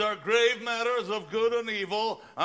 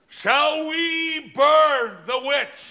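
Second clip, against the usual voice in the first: slow, rousing call to the crowd; angry mob leader; 3 dB louder, slower than usual. Acted. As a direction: whip up the mob, slowly.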